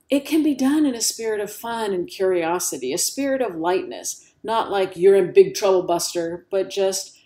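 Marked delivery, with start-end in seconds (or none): 5.0-6.5 loud, lightly voiced parental warning; mock stern parent. Parent warning a kid of big trouble, mock stern. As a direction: put on a hint of a scolding parent.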